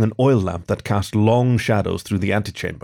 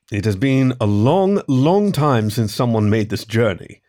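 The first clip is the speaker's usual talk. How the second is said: deep intoning voice. Acted. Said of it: "intoned a deep voice".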